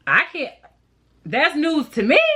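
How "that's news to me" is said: flat sarcastic aside; dry sarcasm. Acted. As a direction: say it like it surprises no one. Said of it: "repeated with more bite".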